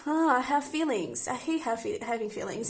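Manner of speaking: playful exasperated groan at having feelings; lightly hammed-up annoyance; mock frustration. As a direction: act fed up with your own feelings. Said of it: "that type of energy".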